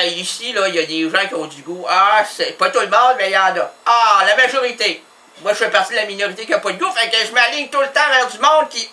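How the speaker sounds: normal talking voice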